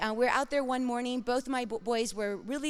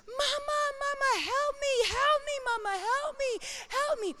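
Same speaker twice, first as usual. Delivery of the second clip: put-on high, crying child's plea for help; terrified child crying; 14 semitones higher than usual. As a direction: cry out like a scared toddler trapped. Son trapped under house, crying.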